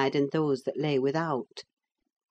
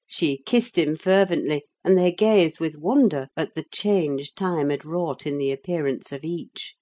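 ordinary talk

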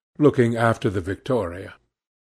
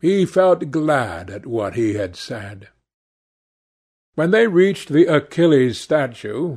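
plain reading voice

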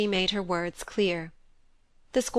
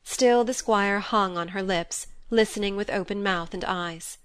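ordinary delivery, nothing marked

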